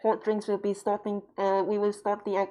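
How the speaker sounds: imitating an airline captain over the PA. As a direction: boom it out like a captain on the intercom. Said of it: "it's always like this".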